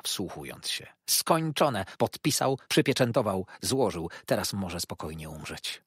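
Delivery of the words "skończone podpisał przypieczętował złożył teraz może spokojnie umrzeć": high, loud meddling matron's voice; self-satisfied mother-in-law boasting; fussy old mother. Acted. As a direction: play the pompous old mother, pitched up and loud. Markleham keeps talking, high voice.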